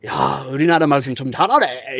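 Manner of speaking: quick, surprised Korean praise of a foreigner; imitating Korean locals. Korean local praising the white guy's Korean, quick and impressed. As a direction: rattle it off fast like an impressed local. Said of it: "and they're like".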